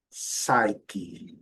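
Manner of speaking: "psyche" as SAI-ki, silent P; pronúncia modelo. Shown as a demonstration. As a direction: model "psyche" with a strong SAI and falling end. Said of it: "já vou direto aqui na pronúncia". ("psyche" sem P, soando "SAI-qui")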